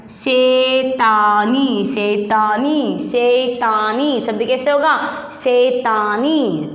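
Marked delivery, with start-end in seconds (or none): 0.1-3.0 शैतानी drawn out slowly, syllable by syllable; slow stretched word. Shown as a demonstration. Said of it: "थोड़ा रुक कर, जोर लगा कर बोलना है।". 5.3-6.7 शैतानी drawn out slowly, syllable by syllable; slow stretched word. Shown as a demonstration. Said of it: "थोड़ा रुक कर, जोर लगा कर बोलना है।".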